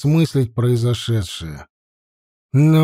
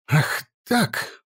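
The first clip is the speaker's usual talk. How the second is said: angry outburst; 6 semitones higher, 4 dB quieter than usual. Acted. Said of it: "бледнее от злости".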